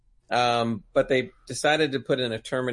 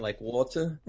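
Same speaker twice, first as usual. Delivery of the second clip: water in an attempted English accent; an American attempting English "water"; 4 dB quieter, slower than usual. Shown as a demonstration. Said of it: "ten words with an English accent".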